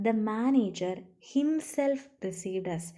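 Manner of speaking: himself said with the main weight; slow teacher read, himself stressed. Shown as a demonstration. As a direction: lean on the word himself as you read slowly. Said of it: "അതിൽ stress കൊടുക്കുന്നത്".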